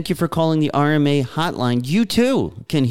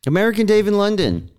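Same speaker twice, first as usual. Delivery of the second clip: announcer tag; 8 semitones higher than usual. Acted. Show sign-off tag voice.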